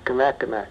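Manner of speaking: Kanakanak the local way, kuh-NACK-uh-nack; local pronunciation. Shown as a demonstration. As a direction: say Kanakanak with the "a" of "cat". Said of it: "they more likely to say".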